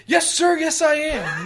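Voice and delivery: hammed-up proud yes sir; mock proud reply. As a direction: puff up and answer proudly. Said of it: "he's like".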